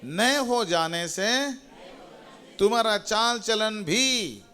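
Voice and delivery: high, measured verse prompt; feed the crowd one phrase at a time, slowly; call it out firmly. Shown as a demonstration. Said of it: "जोर से बोलिए".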